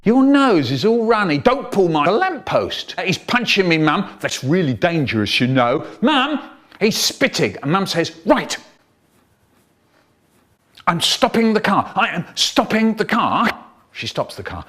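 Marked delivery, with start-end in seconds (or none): 0.0-7.6 put-on squabbling kid. Siblings fighting, calling to mum. 8.3-13.5 fed-up mum. Retold or imitated. Mum losing patience.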